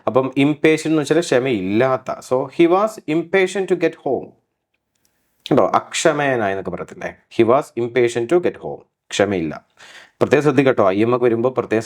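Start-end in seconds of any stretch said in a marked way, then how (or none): 2.2-4.3 he was impatient to get home, drawn out word by word; slow example read. Shown as a demonstration. Teacher reads the example sentence slowly for students. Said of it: "teacher reads example slowly". 7.4-8.8 He was impatient to get home, slow with to stressed; slow repeat. Shown as a demonstration. Teacher repeats the sentence slowly for students. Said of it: "repeat slowly".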